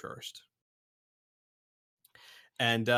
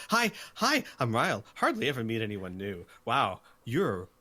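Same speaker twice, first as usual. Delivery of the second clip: excited chatter. Acted. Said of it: "Ryle comes up straight to them and goes".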